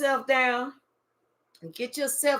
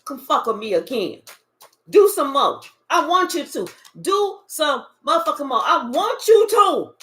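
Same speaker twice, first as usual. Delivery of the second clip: loud taunting dare, louder at the end; a tough, goading challenge; 3 dB louder than usual. Retold or imitated. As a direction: dare them to come back for more. Taunting the devil to come back.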